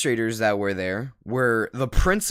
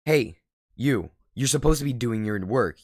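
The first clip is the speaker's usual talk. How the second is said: mock teacher scolding; 3 semitones higher than usual. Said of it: "she immediately flips out on her".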